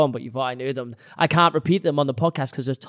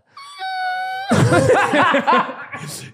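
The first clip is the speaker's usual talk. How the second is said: high straining engine squeal; race car noise. Shown as a demonstration. Retrying the race car for friends, high sputtering engine noise. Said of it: "tap into different kind of vocals".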